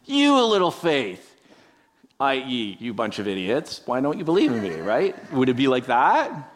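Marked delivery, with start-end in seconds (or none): 0.0-4.8 imagined Jesus scolding his disciples, angrily; angry rebuke. Pretend. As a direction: snap at them like a fed-up teacher. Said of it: "like, angry?".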